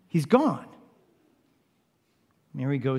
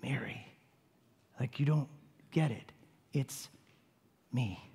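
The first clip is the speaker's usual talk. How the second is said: whispered name, soft and intimate; hushed, loving whisper; tender whisper; 3 semitones lower, 11 dB quieter than usual. Acted. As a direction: call her by name like an old friend. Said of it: "hearing Jesus say".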